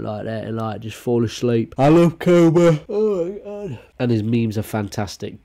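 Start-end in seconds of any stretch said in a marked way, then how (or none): 1.8-3.8 high, squealed fan love; gushing. Real, not acted. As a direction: gush like a fan. Gushing at meme.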